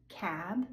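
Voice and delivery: Cab with a voiced B at the end; voiced final B. Shown as a demonstration. Teacher contrasting Cab with cap. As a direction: hum through the B in Cab. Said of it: "I will say the voiced word first".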